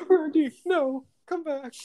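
Captain America calling Randy back, mock loud call; calling after him. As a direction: yell after him, hammed-up.

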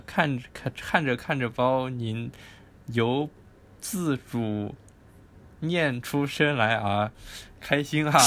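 put-on reading in a northeastern Chinese accent; hammy northeastern Chinese accent read-aloud. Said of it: "我听你讲会比较想笑".

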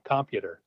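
"computer" with COM hit, as it reads; wrong stress. Shown as a demonstration. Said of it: "break it down into two parts".

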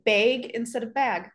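first "bag" with a long AY, like "bayg", second one standard; Midwestern pronunciation. Shown as a demonstration. Guest shows how Minnesota area says bag, Midwestern vowel first. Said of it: "fun fact about the Midwest".

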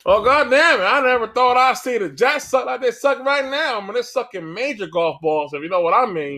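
mock Southern accent commentator. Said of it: "screaming in a Southern accent".

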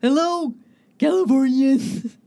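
hesitant attempt at an Austrian accent; Arnold Schwarzenegger accent. Asked for her Arnold impression, greeting Californians in an Austrian accent. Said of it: "do your Arnold Schwarzenegger accent".

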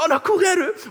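high, loud re-enacted shout; panicked calling out. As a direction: shout for your missing child, pitch way up. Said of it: "men jeg bare roper".

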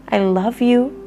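bright, cheerful "I love you"; loving voice. Shown as a demonstration. Speaker demonstrating talking lovingly to the ego, bright and upbeat. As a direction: say it warmly, like to a child. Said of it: "talking to it in a loving voice".

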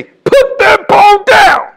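piercing, very high, very loud slow shout; preacher's slow ringing yell at the congregation; crying shout. Pretend. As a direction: cry out to stop them picking up the bone. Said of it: "you gonna hear my voice say".

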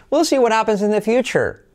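"we'll see what happens in the future" with a rising, lifted melody; intonation demo. Shown as a demonstration. Teacher shows intonation on the model sentence. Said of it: "Entonación, yes".

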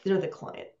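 muttered under the breath in frustration; exasperated aside, nearly voiceless; exasperated undertone. Real, not acted. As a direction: sigh out they're the client, resigned.

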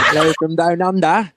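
put-on Australian greeting; mock Australian accent. Singer greeting Sydney listeners in a playful Australian accent. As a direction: lightly imitate an Australian accent. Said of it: "Sydney, Australia".

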